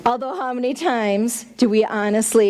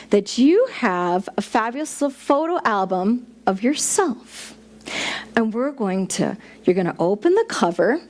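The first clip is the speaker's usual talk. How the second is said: gentle guiding meditation voice; guided meditation. Acted. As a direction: ease them inward, unhurried. Leads a mini meditation.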